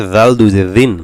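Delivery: দাল and দিন begun with a light th as in "this"; Arabic dhal in দাল, kept thin. Shown as a demonstration. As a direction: drill দাল দুই জের দিন, voiced th from the tongue tip. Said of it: "দাল পাতলা হবে জিহ্বার আগা দিয়ে".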